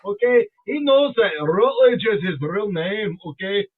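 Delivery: forceful put-on Scottish accent. Speaker telling fans about friend's Scottish name, mock Scottish. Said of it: "we're talking about Scottish accent".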